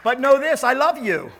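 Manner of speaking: loud, high declaration of love; ringing preacher's declaration; 1 declared loudly. Real, not acted. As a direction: proclaim it warmly to the room. Pastor declares love to congregation.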